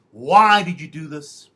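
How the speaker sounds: loud, slow accusing question; mock the wife's loud demand; angry demand. Wife confronting him, angry loud demand.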